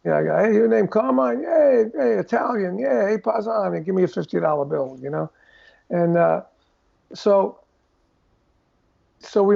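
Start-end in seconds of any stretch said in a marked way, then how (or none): 0.4-5.0 hammed-up Brooklyn paisan schmoozing; Italian tough guy. Imitating Italian mob guys.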